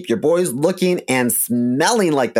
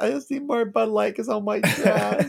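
higher hammed-up white trash drunk; mock white trash voice; 8 semitones higher than usual. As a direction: play a sad redneck drinker, hammed up.

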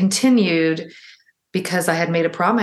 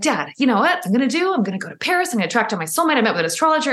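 higher, bright-eyed telling of a wild plan; excited announcement; 5 semitones higher, faster than usual. Retold or imitated. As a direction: pitch it up like a thrilling secret. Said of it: "I told him this wacky story".

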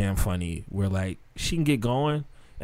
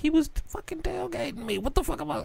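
angry retort; 8 dB quieter than usual. Retold or imitated. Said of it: "I'm like".

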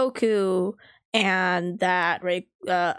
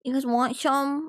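higher, drawn-out offering call; casual offer; 5 semitones higher, slower than usual. Retold or imitated. Kid offering to share food with friends, casual. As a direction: offer it round, pitched up. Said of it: "I would be like".

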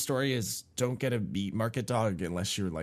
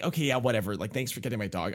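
annoyed; 3 semitones higher, faster than usual. Retold or imitated. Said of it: "I was getting mad at this point".

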